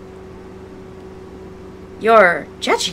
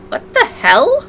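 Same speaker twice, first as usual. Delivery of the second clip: startled; 12 semitones higher, 3 dB louder, slower than usual. Real, not acted. Startled by eyes in fire.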